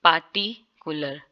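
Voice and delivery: पार्टिकुलर, R silent; British way. Shown as a demonstration. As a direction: say पार्टिकुलर without R again. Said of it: "आर जो है वो बिल्कुल ignore कर रहे हैं".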